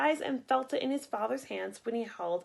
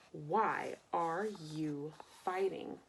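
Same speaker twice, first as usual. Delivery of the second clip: quiet written question; 6 semitones lower, 7 dB quieter, slower than usual. Acted. Boy writes in the sand.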